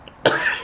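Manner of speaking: sudden real sneeze; sneezing. Real, not acted. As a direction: let out a quick sneeze. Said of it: "excuse me, I'm gonna sneeze".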